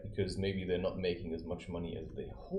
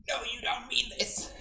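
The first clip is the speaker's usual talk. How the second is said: high doubting partner; 13 semitones higher than usual. Retold or imitated.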